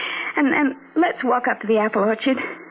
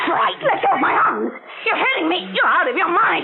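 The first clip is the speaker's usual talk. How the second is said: high, panicked pleading; frightened protest; 10 semitones higher than usual. Acted. Sister held by the arms, high and panicked. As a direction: struggle free in fear.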